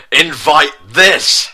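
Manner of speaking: slow mock-heroic shout. A narrator's reading. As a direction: yell it while tearing paper. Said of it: "shouted Garfield".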